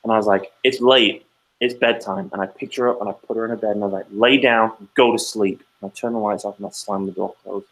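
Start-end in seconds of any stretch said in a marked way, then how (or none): 0.6-2.3 mildly raised, firm bedtime order; pissed-off parent. Retold or imitated. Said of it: "And I was pissed". 4.1-5.6 firm, slightly raised command; pissed-off parent. Retold or imitated. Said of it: "And I was pissed".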